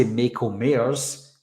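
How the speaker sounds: "Michael Myers" said slowly as "Mako Mayers"; "Michael Myers" drawn out toward "MAY-ko MAY-ers"; misheard pronunciation. Shown as a demonstration. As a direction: say "Michael Myers" with "ay" vowels in both words. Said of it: "he'll hear that and then he'll hear something else".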